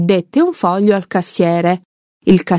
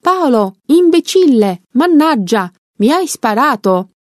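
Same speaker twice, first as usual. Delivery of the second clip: pained cry; 5 semitones higher than usual. Acted. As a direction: cry out from the floor. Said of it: "cadde al suolo e gridò".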